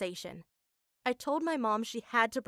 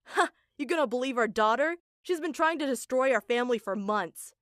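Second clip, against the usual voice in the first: angry denial; 4 dB louder than usual. Retold or imitated. Dad denies, accusing daughter.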